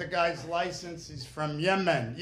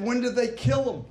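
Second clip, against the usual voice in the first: puzzled New Yorker shout; 6 semitones higher than usual. Retold or imitated. Friend watching a car chase, baffled shout. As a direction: yell it like a bewildered friend. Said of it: "He said".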